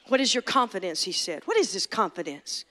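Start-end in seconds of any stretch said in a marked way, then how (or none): 0.1-1.0 taunting enemy. Acted. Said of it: "taunting voice of the enemy". 1.4-2.6 taunting enemy. Acted. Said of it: "taunting voice of the enemy".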